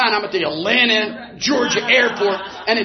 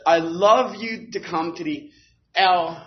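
quoting Don; slower than usual. Retold or imitated. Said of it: "he said".

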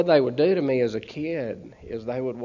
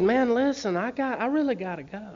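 desperate plea; 9 semitones higher than usual. Retold or imitated. Begging again to leave.

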